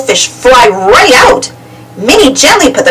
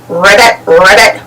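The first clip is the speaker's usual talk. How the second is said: low male ribbit; a boy frog croaking; 5 semitones lower than usual. A narrator's reading. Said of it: "he said".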